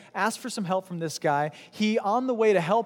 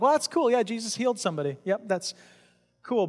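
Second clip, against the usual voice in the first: casual shrug; 3 semitones higher than usual. Acted. Mimics someone casually passing over story.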